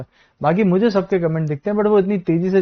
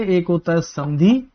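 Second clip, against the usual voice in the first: slow, deliberate term. Shown as a demonstration. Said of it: "एक शब्द जानते हैं".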